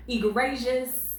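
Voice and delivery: "egregious" with GRAY in the middle, drawn out; unsure pronunciation. Real, not acted. Reading a story aloud, unsure how "egregious" is pronounced. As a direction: say "egregious" as ih-GRAY-jus, slowly. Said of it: "Hopefully I said that correctly".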